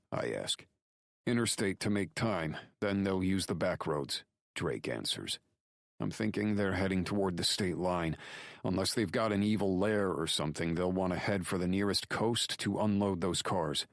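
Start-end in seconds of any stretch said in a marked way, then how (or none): 1.3-4.2 higher-pitched, urgent report; Drake reporting urgently. Acted. Voices Drake answering by phone. 6.0-13.9 higher-pitched, urgent report; Drake reporting urgently. Acted. Voices Drake answering by phone.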